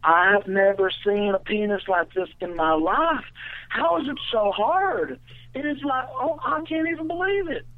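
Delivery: high, drawn-out ditzy girl impression; the girl's voice. Girl gushing to the storyteller in bed, mock high girly voice. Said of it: "the girl's voice, uh, was hysterical".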